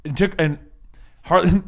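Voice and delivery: dramatic recap narration; story narration. Acted. Game master opens the recap with storyteller narration. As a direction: open the tale like a storyteller.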